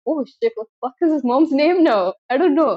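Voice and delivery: panicking at being put on the spot; mock panic. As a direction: blurt it out, flustered. Acting out panic on the call.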